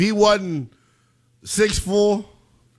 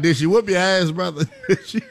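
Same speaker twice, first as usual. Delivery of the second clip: laughing; 3 semitones higher than usual. Real, not acted. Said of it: "I don't mean to laugh".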